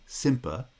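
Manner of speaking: "Simpa" as "SIM-puh", cut off before the last syllable; isolated foot. Shown as a demonstration. Lecturer isolates the foot in sympathy, stressed then weak. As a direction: stress the first syllable of "Simpa", schwa on the second. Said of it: "is a foot".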